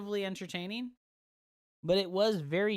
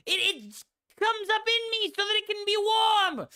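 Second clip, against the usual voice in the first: much higher, yelled defense; shrill mock shout; 9 dB louder than usual. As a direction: scream it, much higher and louder. Shouted mock excuses continue.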